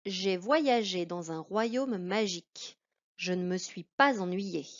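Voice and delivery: put-on slow, careful read-aloud for a child; reading aloud slowly. Shown as a demonstration. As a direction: read each word slowly and clearly for the pupil. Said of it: "à moi de la lire".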